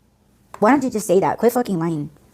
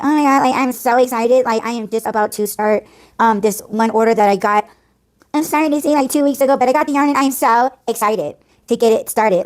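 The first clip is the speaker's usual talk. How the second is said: higher-pitched imitation of a gushing influencer; mock gushing excitement; 4 semitones higher than usual. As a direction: gush it mockingly, breathless to share the news. Imitating influencers gushing about orders.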